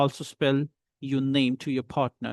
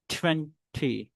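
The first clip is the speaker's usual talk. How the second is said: TWENTY split, TWEN then a softer TY; stressed first syllable; 5 dB quieter than usual. Shown as a demonstration. Teacher pronounces numbers, split TWEN-TY. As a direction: pause inside TWENTY and drop the TY. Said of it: "Now I'm pronouncing the numbers".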